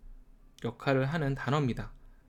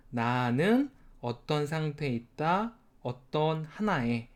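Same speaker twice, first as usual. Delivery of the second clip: slow explaining; slower than usual. Shown as a demonstration. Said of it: "teacher slows to explain".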